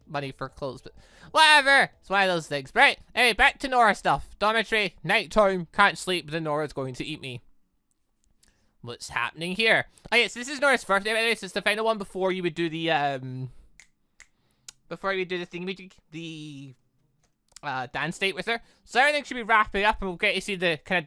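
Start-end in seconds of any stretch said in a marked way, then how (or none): none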